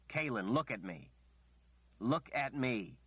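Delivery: urgent. Acted. Richard urgently calls her back.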